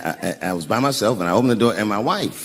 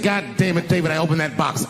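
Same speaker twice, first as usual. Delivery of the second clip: higher-pitched mock scolding; imitated angry wife; 5 semitones higher than usual. Wife mad at her husband about the box, mock angry. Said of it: "she was mad at me".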